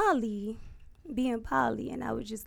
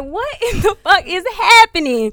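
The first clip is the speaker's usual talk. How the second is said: high, laughing through it; cracking up in shock; laughing disbelief; 6 semitones higher, 5 dB louder than usual. Retold or imitated. Recalling the friend's confession to her, laughing in disbelief. Laughing, recounting being hit on.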